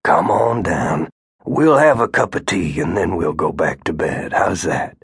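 put-on calm the scared child back to sleep; soothing grandfather.

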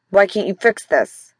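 grumbling, grunted question. Acted. Sore husband demanding his wife fix it, grunted. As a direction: grunt it, annoyed. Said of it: "Daniel grunted".

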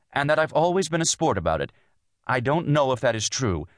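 high, strained argument; tense. A narrator's reading. Wife disputes being a sport about it, tense. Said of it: "she began tensely".

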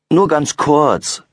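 put-on girl begging her busy mum. A narrator's reading. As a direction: beg mum for just a moment. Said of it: "bettelt Laura".

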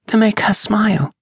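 put-on high, small child's voice; little girl voice. A narrator's reading. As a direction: voice her as a shy little girl. Child voiced in read novel.

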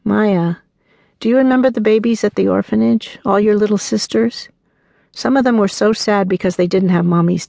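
put-on gentle mother reassuring her little girl; tender reassurance. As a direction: soothe a small child before leaving. Mother comforting small daughter.

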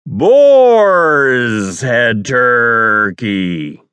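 a long falling announcer read; drawn-out announcer. Shown as a demonstration. Worn down, stretching the line out for the director.

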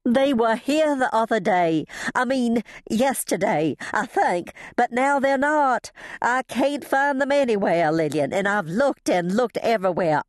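high, distressed outpouring; frantic, struggling for words. A narrator's reading. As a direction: get the words out in a panic. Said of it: "could hardly get the words out".

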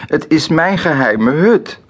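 hoge, huilerige kinderroep; roepend. A narrator's reading. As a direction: roep overstuur, hoog als een kind. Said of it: "roept ze". (huilend kind dat hoog roept)

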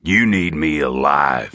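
a hint of a cool, low-voiced captive; bargaining captive. Horn bargains with his captor.

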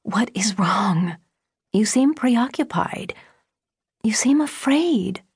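urgent, anxious questioning, pitch climbing; low frantic voice. A narrator's reading. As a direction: press anxiously for an answer, drawn out. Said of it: "in a low, frantic voice said".

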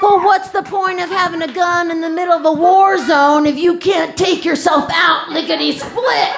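exasperated mom. Retold or imitated. Mom snapping back at her son, loud and exasperated. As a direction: fire the question back at him loudly.

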